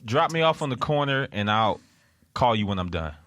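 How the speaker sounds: lightly put-on American phrase; American accent. Shown as a demonstration. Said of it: "what do Americans say?".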